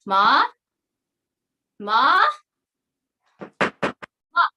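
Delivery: loud worried call through a door. Acted. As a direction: call out for her mother, alarmed. Calling to mother behind door.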